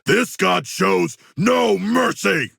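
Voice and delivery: high, slow, shouted boast; boastful battle cry. Acted. Fighter boasting of godlike power mid fight, shouted. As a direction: proclaim your own might.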